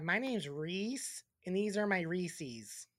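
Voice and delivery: slow, drawn-out mocking introduction; a hint of a slow simpleton; mock dum-dum. Host mocks people saying Reese's wrong, mock dum-dum.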